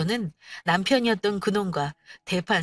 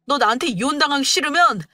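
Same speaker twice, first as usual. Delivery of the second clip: demanding tirade, getting louder toward the end; angry husband; 3 semitones higher, 5 dB louder than usual. Acted. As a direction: order her to apologise, with rising anger. Husband demands apology from wife. (사과를 요구하며 다그치는 남편)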